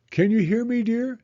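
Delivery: called out high and loud; a mother calling into a box. A narrator's reading. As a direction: call down into the box. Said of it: "she called".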